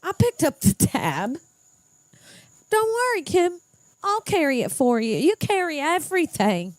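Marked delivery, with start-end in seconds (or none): 0.0-3.6 doting caretaker. Pretend. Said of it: "I want someone to go".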